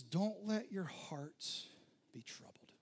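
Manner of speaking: slow whisper; hushed reassurance. Retold or imitated. Jesus calming his panicked disciples, slow whisper. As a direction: breathe it out slowly, soothing.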